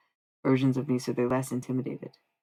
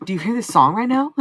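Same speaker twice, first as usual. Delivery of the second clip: excited party call; 8 semitones higher, 10 dB louder than usual. Retold or imitated. Partying at the grocery store.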